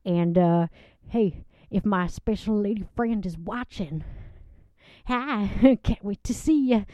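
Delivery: a sweet country woman gushing about her date; a lovelorn Southern guest giggling through her story; Southern lady Loretta. Acted.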